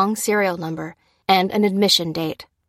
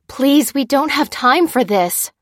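pleading; 7 semitones higher, 6 dB louder than usual. A narrator's reading. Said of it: "said Lucy".

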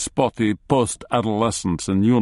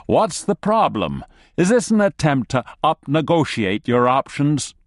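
nervous bargaining; 6 semitones higher than usual. Acted.

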